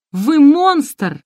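loud, high cry of outrage; shouted accusation. A narrator's reading. Margarita shouts at her birth mother in outrage. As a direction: hurl the words at her. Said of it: "выкрикнула Маргарита".

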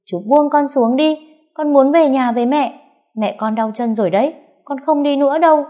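put-on boy screaming at the man carrying him off; child screaming. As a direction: scream to be let go, like a struggling child. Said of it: "rồi gào lên".

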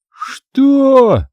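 high, stunned outburst; shocked "что". A narrator's reading. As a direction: jump up at the absurdity. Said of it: "даже привстал".

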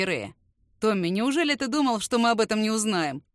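cold and level, no emotion; dry, even voice. Acted. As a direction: state it flatly, menace underneath. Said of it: "Говорит ровно своим сухим, равнодушным голосом".

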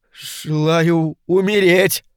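high, strained imp pleading its master; a petty demon begging for release, voice pitched high; high complaining imp; whining little demon. A narrator's reading. Imp begs to die.

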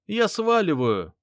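high, loud, slow panicked cry; high panicked shout; panicked yell. Acted. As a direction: yell it from inside the tank, wanting out. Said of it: "раздался его голос".

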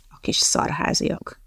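slow, unvoiced mutter under the breath; soft slow muttered insult. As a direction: grumble it to yourself, barely audible. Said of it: "motyogta Harriet".

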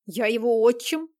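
loud indignant exclamation; a stepfather's loud outburst; exclaiming. A narrator's reading. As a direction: blurt it out, stung and loud. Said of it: "воскликнул Алёхин".

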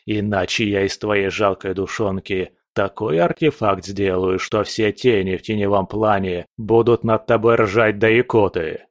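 threatening overlord; a hint of a dark overlord; menacing dark lord.

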